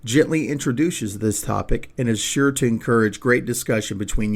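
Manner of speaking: scripted podcast ad read. Acted. Host pitching a children's picture book to parents, scripted ad read. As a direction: read it as a measured, polished promo.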